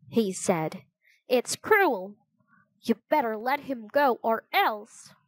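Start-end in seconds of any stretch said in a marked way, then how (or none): 1.3-5.1 indignant. Acted. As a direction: warn the captor indignantly. Jack threatens the captor.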